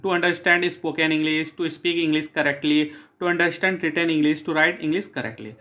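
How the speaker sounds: slow, careful dictation reading. Shown as a demonstration. Teacher reading objectives to students, slow dictation. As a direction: read each phrase out slowly for notes.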